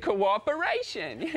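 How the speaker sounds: slow, drawn-out teaching word; Sesame Street lesson. Retold or imitated. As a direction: spell out the moral like kids' TV. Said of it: "social skills from Sesame Street".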